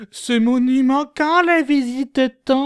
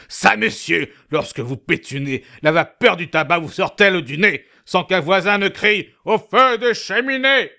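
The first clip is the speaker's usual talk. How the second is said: truculent. Acted.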